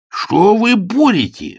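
high outraged shout, slowed. A narrator's reading. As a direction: cry it out in outrage. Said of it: "вскричал он".

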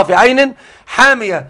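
حامية with a long, drawn-out aa after the ḥ; القراءة الأخرى حامية. Shown as a demonstration. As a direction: stretch the first vowel of حامية slowly. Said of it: "في الرواية الأخرى". (حامية بمد الألف بعد الحاء)

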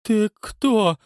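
high, loud frightened question; awed and terrified. A narrator's reading. Night watchman asks the risen figure, awed and terrified. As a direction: ask in horror and awe. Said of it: "благоговейно и с ужасом спросил".

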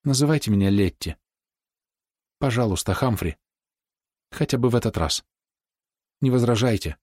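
woman shyly coaxes Humphrey to call her Letty; shy and coaxing. A narrator's reading. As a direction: gently persuade him to use her name. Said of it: "застенчиво и уговаривающим тоном".

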